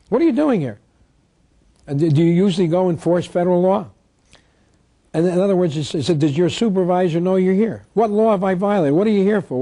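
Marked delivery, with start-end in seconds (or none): 0.1-3.9 indignant confrontation. Retold or imitated. Confronting police, demand repeated. 6.2-9.6 indignant challenge. Retold or imitated. Confronting police at seizure.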